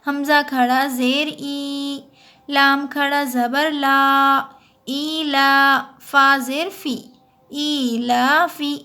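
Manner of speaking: slow letter-by-letter spelling of ई ला फी; teacher demonstrating letter-by-letter spelling; spelling demo. Shown as a demonstration. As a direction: spell it out slowly for students. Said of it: "हिज्जे इस तरह से करेंगे".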